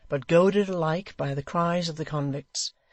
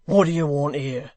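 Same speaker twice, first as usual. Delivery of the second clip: louder, hard question; challenging hangman; 6 dB louder than usual. Acted. Dennis challenging Hugh at the cells, loud. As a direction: demand it. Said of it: "said Dennis".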